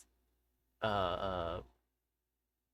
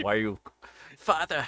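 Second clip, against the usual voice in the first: put-on Victorian child voice; 3 semitones higher than usual. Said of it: "Edwardian or Victorian child voice".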